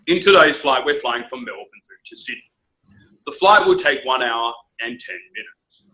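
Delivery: imitating a calm pilot announcement; steady captain's voice with falling ends; lightly voiced airline captain. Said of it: "the captain will get over the P A".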